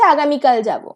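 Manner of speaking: আগামীকাল given extra weight; stress on আগামীকাল. Shown as a demonstration. Teacher clarifying which day is meant, stress on আগামীকাল. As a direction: press on আগামীকাল to single out the day. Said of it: "আগামীকালটার ওপর stress দিচ্ছি".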